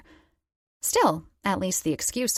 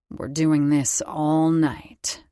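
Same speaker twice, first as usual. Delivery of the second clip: vow; 2 semitones lower, 5 dB louder, slower than usual. A narrator's reading. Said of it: "he swore".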